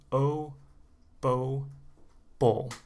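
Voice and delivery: O, bow, bowl, all with the same oh; long O series. Shown as a demonstration. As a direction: step through O, bow, bowl, one beat each. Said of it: "one syllable".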